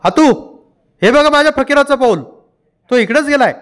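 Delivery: high, excited calling out; sudden cry. A narrator's reading. Mother spotting her son's footprint, excited cry. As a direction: cry out at the discovery, pitched high. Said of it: "ती एकदम ओरडली".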